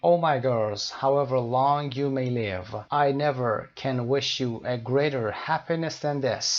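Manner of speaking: slow, deliberate English read-out; measured classroom reading; teacher reading aloud. Acted. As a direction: read it out slowly for learners. Reads novel line aloud.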